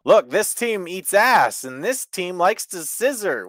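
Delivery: high, loud mock excitement; hammed-up gleeful storyline pitch; mock hype pitch. Mocking a juvenile wrestling angle to co-hosts, in fake hype.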